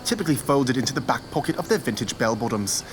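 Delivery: hushed wildlife narrator; nature documentary. Acted. Please enjoy this educational video.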